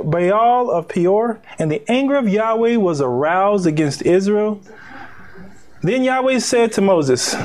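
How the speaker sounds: measured, declaimed Bible reading; preacher reading from the text; scripture reading. Acted. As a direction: read the verses out to a congregation. Reads scripture aloud.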